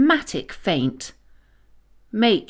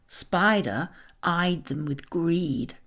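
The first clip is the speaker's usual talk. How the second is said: ordinary delivery, nothing marked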